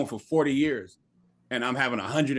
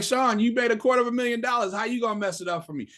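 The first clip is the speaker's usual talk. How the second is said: tag; 7 semitones higher than usual. Retold or imitated. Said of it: "They're like".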